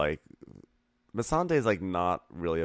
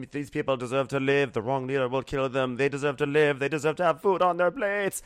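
impassioned plea; 7 semitones higher, 3 dB louder than usual. Acted. Varys-style plea, impassioned.

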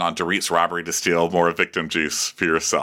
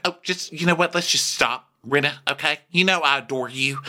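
higher-pitched mimicked placating; Sutton; 5 semitones higher than usual. Sutton placating Rinna, raised mimicking voice. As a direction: lightly voice someone calling a halt. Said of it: "So Sutton's like".

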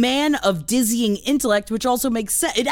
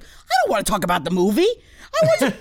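gushing; faster than usual. Retold or imitated. Actor gushing over the baby.

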